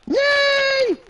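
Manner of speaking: dismayed cry. Real, not acted. Player fails in game.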